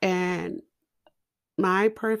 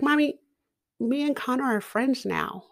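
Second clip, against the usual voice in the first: a hint of a happy toddler, higher; lightly voiced small child, pleased; little girl voice; 4 semitones higher than usual. Toddler tells her mom, lightly voiced child. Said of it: "she's like".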